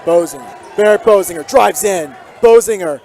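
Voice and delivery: steady broadcast call, lifting on each drive; live play-by-play. Real, not acted. Commentator calling the game for listeners at home, play-by-play.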